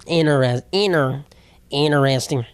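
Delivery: "inter-, interesting" as "inner, inner-esting"; T dropped. Shown as a demonstration. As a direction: repeat "inter-" and "interesting" with no T after the N. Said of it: "without saying the T".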